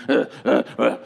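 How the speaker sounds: short imitated grunts of tossing in bed; restless grunts. Dad tossing and turning, imitated restless grunts. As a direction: grunt as if unable to sleep. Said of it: "your dad's tossing and turning".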